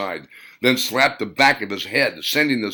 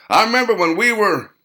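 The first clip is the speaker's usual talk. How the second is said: put-on old storyteller; 13 semitones higher, 7 dB louder than usual. Old vet starting a story.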